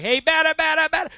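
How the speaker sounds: high, loud ballpark heckle; fun smack talk. Retold or imitated. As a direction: chant it like a fan razzing the hitter. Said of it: "talking fun smack at a baseball game".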